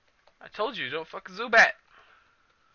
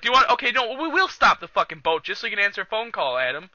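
retold pissed old man; 3 semitones higher, 5 dB louder than usual. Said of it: "old guy's pissed. He's like".

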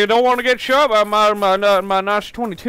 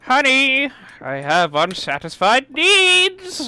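slow, raised, eerie plea; creepy cultist; 5 semitones higher, 3 dB louder, slower than usual. Acted. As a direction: creep out the listener. Creepy cultist calling his wife.

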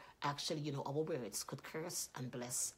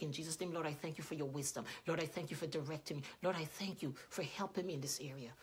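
softer, reverent prayer voice; 3 dB quieter than usual. Acted. Preacher praying for wisdom, hushed and reverent. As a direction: pray it quietly to the Lord. Prays aloud.

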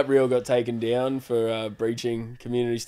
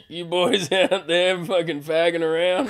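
Theo Von impression; 4 semitones higher than usual. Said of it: "full Theo Von joke".

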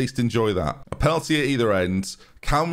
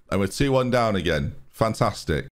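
bitter sarcasm; 2 semitones lower than usual. Real, not acted. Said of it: "Can you hear the bitterness in my voice".

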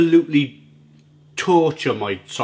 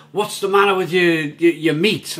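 higher-pitched imitation of an American; American accent; 4 semitones higher than usual. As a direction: quote the American blogger in a light American accent. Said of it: "in his American accent".

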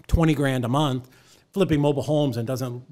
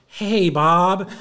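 loud, raised group-style hello; crowd greeting; 5 semitones higher, 6 dB louder than usual. Retold or imitated. Whole room greeting the old man, called out loud. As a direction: call it out like a whole room answering. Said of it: "the whole place goes".

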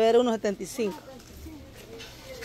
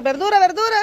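mock vendor call; 9 semitones higher than usual. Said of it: "ponerme aquí a gritar".

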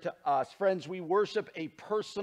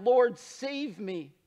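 mock cry for help; 4 semitones higher, 4 dB louder, much slower than usual. Peter cries out sinking.

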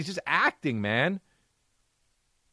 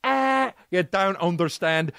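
mock exasperated actor; 3 semitones higher, slower than usual. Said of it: "I hope he went like this".

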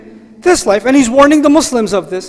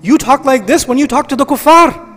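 a hint of a puzzled companion asking; raised, earnest questioning to God; lightly voiced Sahabi asking why; companion's plea; 4 semitones higher than usual. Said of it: "the Sahabi listening to this".

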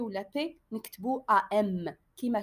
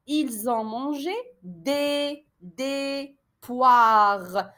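slow dictation; much slower than usual. Shown as a demonstration.

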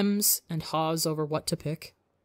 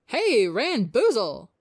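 calling out; 5 semitones higher, 5 dB louder, slower than usual. Acted. Ozzy calling across the hall.

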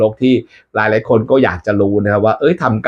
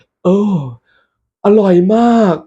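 much higher altered voice, raving about taste; changed voice; 10 semitones higher than usual. Acted. Monk praising the fruit, voice changed high. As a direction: let the voice jump high with delight. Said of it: "อร่อยจนเสียงเปลี่ยนเลย".

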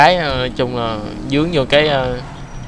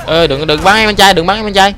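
urgent calling out; 6 semitones higher than usual. Real, not acted. Player shouting at companion.

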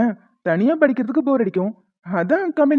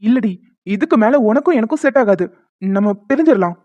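staged angry quarrel. Pretend. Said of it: "சண்டை போடுற மாதிரி".

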